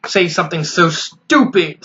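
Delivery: slow, stern snap; a stern snap at her; snapping. Acted. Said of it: "Sunset Shimmer snapped".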